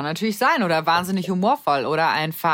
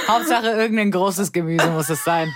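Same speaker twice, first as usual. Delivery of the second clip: ordinary talk, nothing marked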